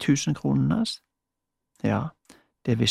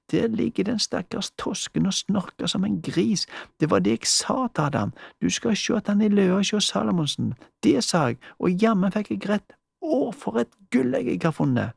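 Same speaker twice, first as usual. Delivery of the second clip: lightly voiced higher gloating old spinster; gleeful Frøken Bregne; 6 semitones higher than usual. Frøken Bregne gloats to herself over the sleeping man, lightly higher and gleeful. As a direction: crow over your prize, a little higher.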